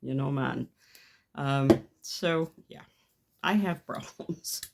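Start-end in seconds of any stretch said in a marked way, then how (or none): 0.0-0.7 lightly put-on Jamaican accent. Shown as a demonstration. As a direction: slip into a mild mock Jamaican accent. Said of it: "they all end up Jamaican".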